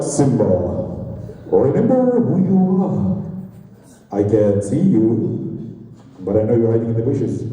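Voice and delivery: slow, solemn voice of a lion king father; Mufasa to Simba. Retold or imitated. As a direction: speak down to your son like a majestic ghost from the sky. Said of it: "Look here, Mufasa".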